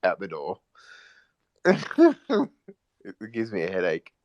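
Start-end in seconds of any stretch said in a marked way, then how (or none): 1.6-2.5 squealing laugh, much higher and louder. Real, not acted. Laughing at own Eshay joke, high squeal. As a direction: let out a high shriek of laughter.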